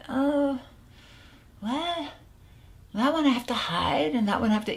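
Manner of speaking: high, faltering mock French accent; French client. Client counting relaxing cigarettes for the coach, faltering mock French accent. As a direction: imitate a Frenchman stalling, lightly accented. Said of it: "he was French".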